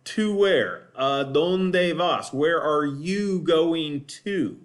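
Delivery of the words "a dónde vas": "A dónde vas" said slowly, stress on "dónde"; frase modelo lenta; slow Spanish example. Shown as a demonstration. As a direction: model the question slowly for students. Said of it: "the last one is a dónde".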